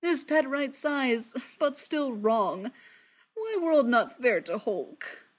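slow, sulky Hulk voice; dejected. Acted. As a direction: sad lumbering complaint. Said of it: "the Hulk says despondently".

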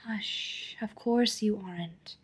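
soft unvoiced whisper. A narrator's reading. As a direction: hush him in a whisper. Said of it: "Feely whispers".

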